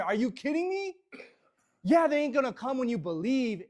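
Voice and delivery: loud, high, emphatic pitch for the team; impassioned belief. Acted. Trainer defending the company to a doubter, fired up and incredulous.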